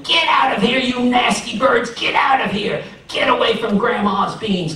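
high shouts chasing birds off; yelling neighbors. Acted. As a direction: yell to scare off the birds. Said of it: "some neighbors were yelling".

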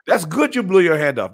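high mocking mom voice; gloating Haitian mom. Imitating his mom gloating after the firework accident. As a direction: rub it in like a told-you-so mother. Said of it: "That's how Haitian parents are".

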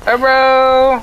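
high, loud call-out. Real, not acted. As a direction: shout it to your partner. Calling out in game.

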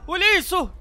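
high, stunned exclamation; alarmed gasping question; shocked. Real, not acted. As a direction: react in disbelief at the screen. Shocked watching quake.

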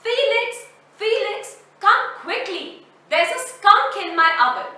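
high urgent call across the farm; old woman calling the neighbor for help. Acted. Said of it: "Adela reached and shouted".

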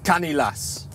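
"canny lass" slow, in a Geordie accent. Shown as a demonstration. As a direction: teach it slowly in Geordie. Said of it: "a nice looking girl".

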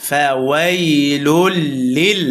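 measured ফাওয়াইলুল লিল, vowels not held; no vowel stretch. Shown as a demonstration. Teacher showing no madd, measured ফাওয়াইলুল লিল. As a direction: lean on the doubled ল of লিল. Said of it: "কোনো টান হবে না".

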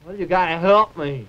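talking through a mouthful; mouth full. Acted. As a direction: speak round a bite of food. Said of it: "Don't talk with your mouth full".

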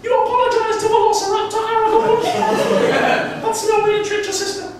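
high, loud shouting mum; calling kids to dinner. Retold or imitated. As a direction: yell across the house at the kids. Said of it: "my wife would be in the kitchen and be like".

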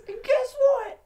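imitated scream; loud, high mock-menacing question; Trip. Boss building up a threat, imitated screaming. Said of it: "He's screaming at the top of his lungs".

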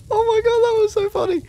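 high, squeaky-pitched laughter through the words; real laughing. Real, not acted. Player tickled by what just happened, laughing high. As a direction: barely get it out for laughing.

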